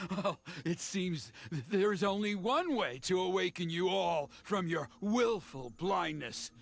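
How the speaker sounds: low, slow menacing villain; lightly voiced sinister villain; slow theatrical villain menace. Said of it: "makes you sound like an evil villain".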